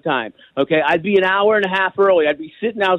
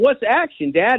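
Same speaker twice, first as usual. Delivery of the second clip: retold child's yell; 7 semitones higher than usual. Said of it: "I'm yelling".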